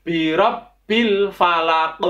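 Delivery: "rabbil" with a doubled b; over enunciating. Shown as a demonstration. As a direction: press the b in "rabbil". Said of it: "ada tasdid pada huruf ba".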